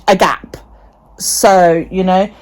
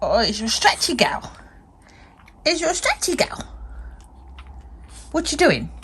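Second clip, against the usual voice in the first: whispered cooing; 5 semitones higher, 10 dB quieter than usual. Real, not acted. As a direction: coo it in a whisper. Cooing to stretching dog.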